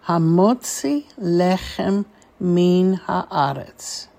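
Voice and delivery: measured phrase, words linked with brief gaps; teacher's deliberate run-through of the whole phrase. Shown as a demonstration. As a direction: join the four words into one careful phrase. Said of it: "a little bit more quickly".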